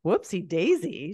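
a flat, disbelieving "Whoopsie daisy?"; quoting her puzzled reply; incredulous echo. Retold or imitated. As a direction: repeat it back as if it's absurd. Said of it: "And she's like".

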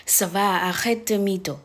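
Ça va, arrête de mytho, drawn out slowly; slow French demo. Shown as a demonstration. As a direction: model it slowly for students. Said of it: "ก็จะพูดว่า". (พูดช้าๆ ทีละคำ)

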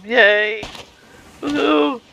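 high happy cheer. Real, not acted. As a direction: celebrate the win. Celebrating victory.

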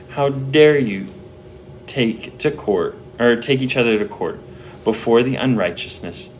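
pleading. Retold or imitated. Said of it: "Paul's almost pleading to them".

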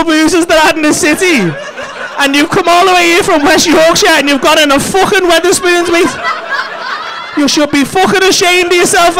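high-pitched comic telling-off; hammed-up indignant rant; mock outrage. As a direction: scold him in pretend disgust. Mock scolding over choice of pub.

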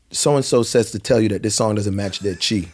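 ordinary talk, nothing marked

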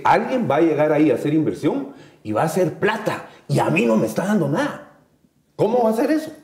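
mildly aggrieved, pitch climbing to a high question; mock indignation. Panelist voicing locals who oppose hydro projects, mildly indignant. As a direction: voice a local's indignant objection, rising as it goes. Voices the objecting locals' complaint.

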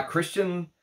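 put-on Louboutin in a drawling Texas accent; mock Texan pronunciation of Louboutin. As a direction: say the name like a Texan. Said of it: "in my Texas accent".

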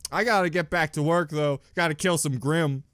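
lightly voiced, brushing it off; a shrugging, hasty dismissal; mocking Ruby. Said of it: "she'd be like".

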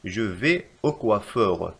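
very slow, word by word; slow dictation. Shown as a demonstration. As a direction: spell it out slowly for learners. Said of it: "فالخطأ في هذه الجملة".

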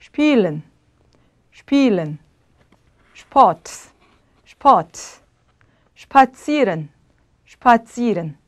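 spielen, Sport, spazieren begun with "shp". Shown as a demonstration. Teacher models initial SP for students, shp. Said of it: "이게 다 슈프로 발음이 돼요".

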